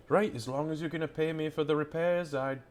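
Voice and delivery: lightly voiced butcher conceding with some hesitation; grudging butcher. Butcher nods to Doc about repair money, grudging.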